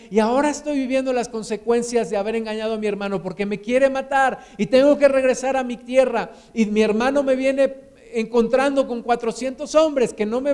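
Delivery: acted confession with a touch of anguish; heartfelt confession. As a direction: pour out Jacob's heart, building as the troubles mount. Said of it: "voy a dejar un poquito mi corazón que hable".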